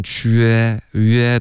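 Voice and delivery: 缺约 drawn out with a sliding vowel; gliding che. Shown as a demonstration. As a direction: exaggerate the glide in 缺约. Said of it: "这个che的这个有一点滑动".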